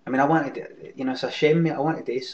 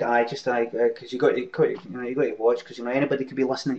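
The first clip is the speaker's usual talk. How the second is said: imitating paranoid guy. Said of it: "trying to impersonate his incoherence".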